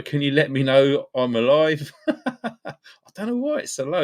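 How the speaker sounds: laughing through the words, voice jumping high. Real, not acted. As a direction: laugh while asking, squeaking up high. Laughing at his low US views.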